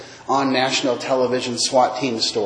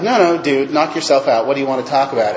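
retold annoyance. Client handing the session back to therapist, mildly annoyed. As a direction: wave the other person off, a touch annoyed. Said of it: "now I'm getting annoyed".

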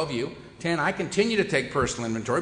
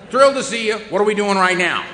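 Lulu's eager dog voice; 5 semitones higher, 7 dB louder than usual. Retold or imitated. Dog Lulu voiced again.

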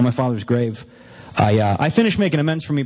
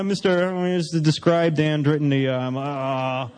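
muttered writing; slower than usual. Retold or imitated. Mimes muttering while writing confession.

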